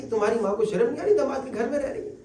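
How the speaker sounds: fast sneering complaint; scornful son-in-law. Retold or imitated. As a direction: sneer at the wife's mother. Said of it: "داماد کہہ رہا ہے". (طنزیہ تیز لہجہ)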